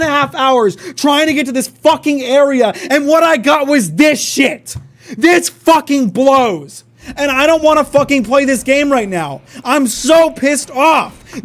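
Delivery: steady, bitter ranting; real bitter rant cursing the game; angry rant. Real, not acted. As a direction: vent the anger at the developer. Ranting after losing the fight.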